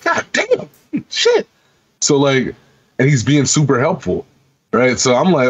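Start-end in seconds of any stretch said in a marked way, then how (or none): 0.0-1.5 squeaky high amazed quote, laughing at the end; amazed gamer. Retold or imitated. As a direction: go way up in pitch, stunned and laughing. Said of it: "And I'm like".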